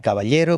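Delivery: caballero with a distinct palatal L for the LL; traditional elle pronunciation. Shown as a demonstration. Showing a friend how older villagers say it, caballero with a palatal elle. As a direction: say caballero keeping LL apart from Y. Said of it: "la pronunciación de la L".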